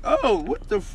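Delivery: high, loud startled reaction; retold shock. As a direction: blurt it out in disbelief, retelling it. Retells shock at court hearing.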